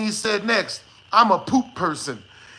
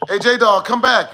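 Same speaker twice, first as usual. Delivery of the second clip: shouting after someone leaving; calling out; 3 semitones higher, 6 dB louder than usual. Real, not acted. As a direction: call him back loudly. Calling after departed chatter.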